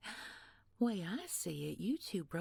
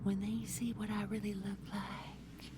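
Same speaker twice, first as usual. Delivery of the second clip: creepy whisper. Acted. Villain's threatening secret.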